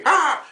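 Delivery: a short, high mock-angry shout; mock angry yell. Comic admitting he gets angry, mock yell. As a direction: fake a burst of rage. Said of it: "sometimes I just get angry".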